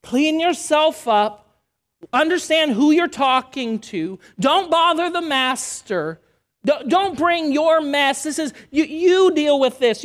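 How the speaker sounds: a hint of a scolding religious voice; mock scolding. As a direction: scold the blind men to hush them. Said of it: "religion says".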